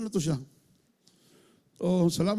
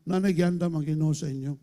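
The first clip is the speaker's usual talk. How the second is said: ordinary talk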